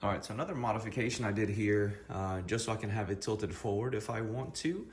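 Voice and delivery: talking with half the face numb; slurred speech from dental numbness. Real, not acted. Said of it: "excuse the way I'm talking, I just came from the dentist, half my face is numb".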